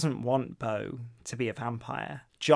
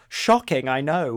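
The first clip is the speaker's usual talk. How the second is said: exclamatory; 6 dB louder than usual. Retold or imitated. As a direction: quote it with an exclamation mark, punching the first word. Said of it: "with an exclamation mark".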